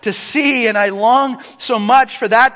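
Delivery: pleading cry. Retold or imitated. Blind beggar pleading with Jesus to see. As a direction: beg for sight. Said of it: "screaming out".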